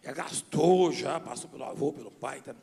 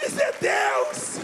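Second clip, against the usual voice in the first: high, loud, drawn-out cry; exclaiming shout; 6 dB louder, much slower than usual. Acted. Pastor credits God for his speaking, exclaiming shout. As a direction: shout it slowly to the rafters.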